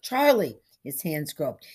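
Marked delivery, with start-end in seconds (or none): 0.0-0.6 high, loud urgent call; crying out. A narrator's reading. Forgetful man calls to the boy for help, crying out. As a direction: cry out the boy's name. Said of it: "he cried out".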